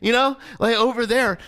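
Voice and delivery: retold indignant reminder; exasperated correction. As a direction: stress the word as a scolding. Retold scolding of the friend.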